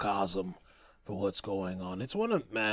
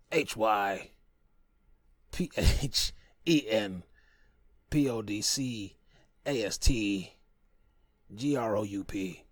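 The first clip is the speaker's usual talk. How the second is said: spelling it out. Shown as a demonstration. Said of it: "that's how you spell it".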